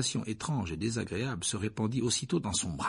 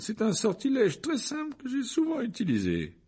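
preen and reassure at full volume; vain teacher; 13 semitones higher than usual. Acted. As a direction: Lockhart soothing the injured Harry with showy confidence. Lockhart voiced by narrator.

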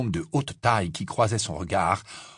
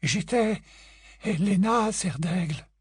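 proud ghost; 9 semitones higher, slower than usual. A narrator's reading. Ghost reveals identity.

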